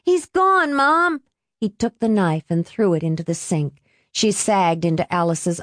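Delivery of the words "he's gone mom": put-on high, urgent young man's cry; high-pitched anxious call; urgent repeating. A narrator's reading. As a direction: insist on it, pitched way up. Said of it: "Benji kept saying".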